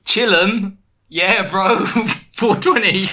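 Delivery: slow, laid-back mock bro voice; a singer. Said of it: "or should I say".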